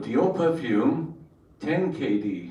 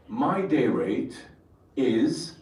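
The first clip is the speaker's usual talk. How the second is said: slow, deliberate mirror statement; self-affirmation to the mirror; slow declaration; much slower than usual. Retold or imitated. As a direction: say it like a vow.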